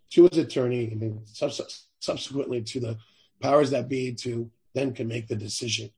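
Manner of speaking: hoarse, failing voice; raspy voice giving out; losing voice. Real, not acted. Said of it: "I'm losing my voice".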